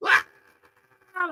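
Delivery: short high squeal of a scream; high playful scream; mock scream. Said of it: "that's my scream".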